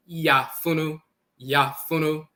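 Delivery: "yafunu" said yah-FOO-noo, a y-glide before the a; pronouncing yafunu. Shown as a demonstration. Lecturer on Akan says yafunu carefully. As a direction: spell out yafunu with the y-glide first. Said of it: "pronounced and written in Akan as".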